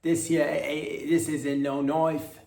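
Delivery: a hint of a mock Aussie drawl; quoted line. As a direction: mimic the line from the clip. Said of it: "somebody said".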